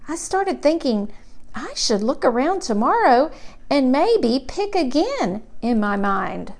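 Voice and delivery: put-on gentle storybook voice of a curious little kid; reading to children. A narrator's reading. Reading a picture book to children at home, gentle storybook voice. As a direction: read it like a bedtime picture book.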